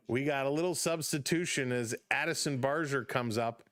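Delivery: lifted, brisk ballgame call; play-by-play call. Acted. Streamer calling the Blue Jays game for chat, upbeat play-by-play. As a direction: call the innings like a radio announcer.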